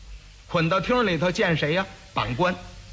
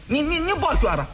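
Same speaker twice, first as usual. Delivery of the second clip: angry; 6 semitones higher than usual. Acted. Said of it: "他急了。".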